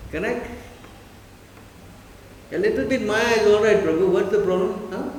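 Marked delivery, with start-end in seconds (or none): 2.5-5.1 breezy, fast, higher coaxing; mock-casual persuasion, a little louder; coaxing tempter. Teacher mimics friends urging a little Maya, breezy. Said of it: "This is how they talk".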